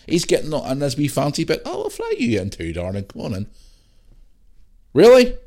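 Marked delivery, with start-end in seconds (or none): 1.6-3.5 mocking posh voice. Mocking producers welcoming mistress. 4.9-5.4 incredulous. Real, not acted. Disbelief at Hancock deal.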